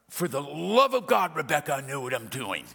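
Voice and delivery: mildly acted defensive retort; a touch of mock exasperation; exasperated husband. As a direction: push back at a nagging wife, building then falling away. Husband snapping back at wife.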